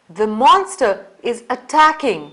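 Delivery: urgent alarmed warning; urgent exclamation. Shown as a demonstration. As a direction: cry out that danger is here. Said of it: "follow it by an exclamation mark".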